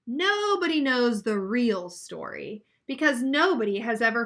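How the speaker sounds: put-on expressive read-aloud for children; reading a picture book to a class; story narration. A narrator's reading.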